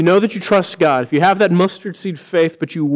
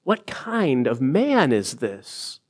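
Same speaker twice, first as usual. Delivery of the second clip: hushed wonder; 3 semitones lower, 5 dB quieter, much slower than usual. Retold or imitated. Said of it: "still having to ask themselves".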